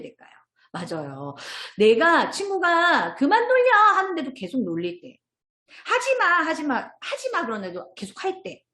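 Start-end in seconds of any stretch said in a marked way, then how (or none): 3.1-3.7 put-on high, loud child-like plea to stop; acted protest. Child telling a teasing friend to stop, acted protest. 5.8-7.4 put-on high, drawn-out child's protest; acted pleading. Child begging teasers who keep going, acted protest.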